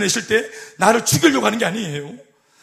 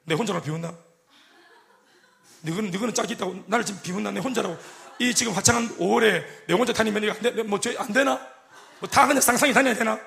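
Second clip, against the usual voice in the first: softer, muttered self-pity; grumbling loner; 4 dB quieter than usual. Retold or imitated. Lonely woman passing laughing couples, muttering grumble. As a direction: mutter resentfully to yourself. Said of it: "지나가면은".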